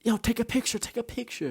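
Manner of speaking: high-pitched mock excitement; excited onlooker. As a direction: squeal it like a thrilled onlooker. Voices excited crowd at tiny man.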